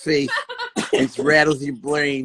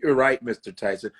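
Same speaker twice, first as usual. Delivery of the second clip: lower-pitched placating reply; meek agreement; 4 semitones lower than usual. Retold or imitated. Guest afraid Tyson will beat him, meek agreement. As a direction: imitate a cowed guest giving in. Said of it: "So you go like this".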